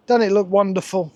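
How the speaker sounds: dry, unenthusiastic mock praise; deadpan sarcasm, no real enthusiasm; sarcastic. Real, not acted. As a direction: praise it while clearly hating it. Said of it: "Can you hear the enthusiasm in my voice?".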